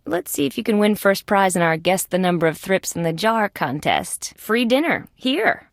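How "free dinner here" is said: higher-pitched hawker's call. Acted. Offering diners a free dinner, high sing-out call. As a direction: tout it to passing customers. Calling out a contest to customers.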